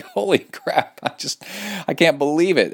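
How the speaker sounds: high-pitched imitation of astonishment; amazed customers. Podcaster quoting repeat buyers of a supplement, mock amazed. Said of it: "They're like".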